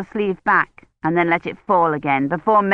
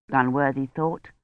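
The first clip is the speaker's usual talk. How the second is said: usual speaking voice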